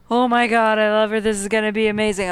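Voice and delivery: loud, excited fan gush; mock gushing. Fan showing the over-the-top reaction she never had, gushing. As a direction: gush like an instant superfan, loudly. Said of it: "I was never like".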